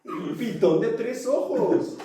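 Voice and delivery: high, slow overeager sales pitch; over eager infomercial. Pretend. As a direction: sell the product on TV. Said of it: "Me sentí como infomercial".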